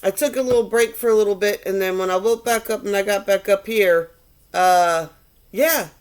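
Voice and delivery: high, breezy goddess voice, just woken from a nap; sassy earth goddess. Acted. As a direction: play a flippant goddess back from holiday. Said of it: "the energy of the earth goddess woke up".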